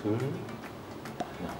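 slow countdown. Acted. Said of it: "hypnotic countdown".

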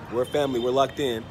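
blocked nose, under the weather; stuffy nose. Real, not acted. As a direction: speak through a congested nose. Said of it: "I'm under the weather".

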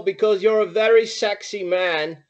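playful imitation English accent; mock British accent; put-on British accent. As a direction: flatter him in a borrowed British accent. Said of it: "trying to talk like you".

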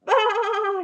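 high, loud lamb bleat; frightened lamb calling out high; lamb bleating loudly. Acted. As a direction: bleat out like a lost little lamb. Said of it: "he cried".

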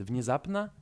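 wniezapna ending on an open a; final o read as a. Shown as a demonstration. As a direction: read the unstressed end of wniezapna as a. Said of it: "ale czytamy je jak a".

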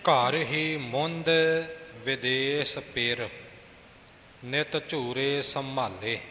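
slow, deliberate phrases with clear breaks; careful model reading. Shown as a demonstration. Teacher correcting a pupil's verse, careful slow model reading.

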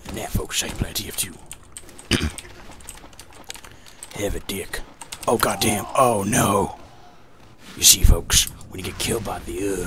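a hammed-up announcer persona addressing the folks; put-on commentator voice. Gamer narrating to his viewers in a put-on voice. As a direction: play a mock commentator narrating his match. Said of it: "I cannot talk like this anymore".

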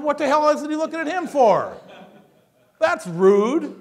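loud, high, comic outrage; hammed-up indignant protest; mock indignation. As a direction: exclaim like an affronted viewer, half laughing. Acts out the indignant viewing public.

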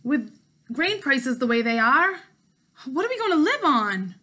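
mother fearing for the family; understated anguish; worried mother. Acted. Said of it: "she said".

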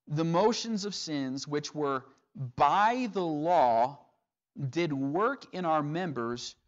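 slow, solemn Bible reading with long pauses; scripture reading. Acted. Preacher reading Romans seven aloud to the congregation, slow and solemn. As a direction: lean hard on "by the law", pausing between phrases.

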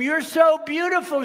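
high, loud delighted cry; cried out. Acted. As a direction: gush over the snake's beauty, pitched high and loud. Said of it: "she cried".

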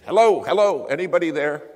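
high, full-force shout for help; desperate shouting. Retold or imitated. Lawyer after ten minutes of calling, desperate shout. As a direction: bellow into the radio, desperate for an answer. Last desperate radio call.

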